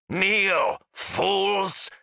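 high, harsh commanding roar; thundering. A narrator's reading. Ghost lord ordering soldiers to submit, thundering. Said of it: "he thundered".

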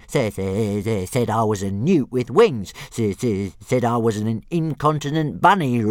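high, loud, stuttering dragon fury; indignant dragon rant. Acted. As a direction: splutter out threats in outrage. Dragon ranting about insult.

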